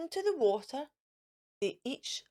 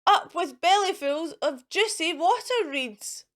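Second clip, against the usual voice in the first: mild hooting cheer; 5 semitones higher, 4 dB louder than usual. Acted. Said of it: "and they hooted".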